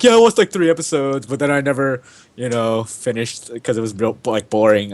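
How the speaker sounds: a hint of a girl friend's voice; girl impression. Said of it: "that was supposed to be a girl".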